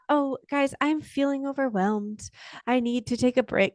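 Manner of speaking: high, measured, too-composed voice; mock calm tone. Parent announcing a break to kids, in an unrealistically calm tone. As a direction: play at sounding perfectly regulated. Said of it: "like, calm, regulated tone".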